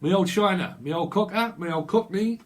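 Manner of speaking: put-on a light Cockney geezer voice in a Cockney accent. Reader imitating a Cockney from London in a Cockney accent. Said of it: "Someone's a cockney".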